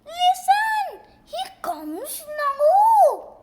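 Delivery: loud, high warning cry; excited shout. Acted. Officer shouting that Dogman is coming. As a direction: yell the warning out with glee.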